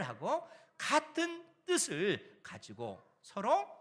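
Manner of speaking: forceful, rising appeal in the apostle's words; emphatic apostolic exhortation. Retold or imitated. Apostle Paul awakening the Corinthian believers to truth, emphatic exhortation. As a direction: preach it loud and high, slowing on the repeated phrases. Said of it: "일깨워 주면서".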